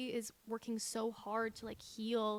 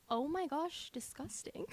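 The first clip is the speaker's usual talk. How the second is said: retold disgust; 6 semitones higher, slower than usual. Wife reacting to her husband just existing, mock disgusted. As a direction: act out getting the ick. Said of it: "I get the ick very easily".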